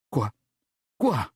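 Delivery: thundered. Acted. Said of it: "tonna-t-elle". (tonnerre aigu et fort)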